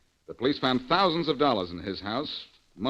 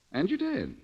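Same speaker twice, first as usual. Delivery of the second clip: whispered and higher, savouring the win; sly whisper; 10 semitones higher than usual. Acted. Gloating whisper at the jailed woman.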